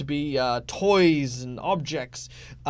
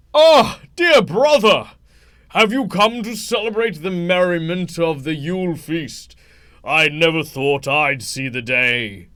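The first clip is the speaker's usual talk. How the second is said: big, booming, jolly, festive ho-ho-ho bellow; 2 semitones higher, 8 dB louder than usual. Narrating a story as a character steps forward to greet his brother, bellowing jolly voice. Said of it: "ho ho ho ho ho coming from within that bellows".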